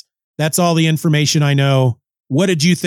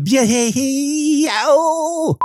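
cracked voice; 10 semitones higher, much slower than usual. Real, not acted. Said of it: "I'm cracking my voice".

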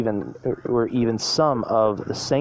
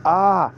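short, high mock scream; storyteller's higher "ah" of alarm; 8 semitones higher, 4 dB louder than usual. A narrator's reading. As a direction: scream lightly in fright. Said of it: "the pups screamed".

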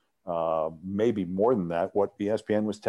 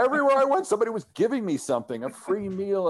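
laughing; 12 semitones higher, faster than usual. Real, not acted. Laughing while telling the story.

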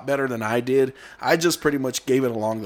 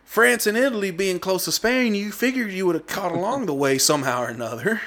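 higher, mock-puzzled retelling voice; retold uncle's reasoning; 7 semitones higher than usual. Nephew retelling his uncle's puzzled reasoning, higher mock voice. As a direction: pitch it up like the bewildered uncle. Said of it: "And so he was like".

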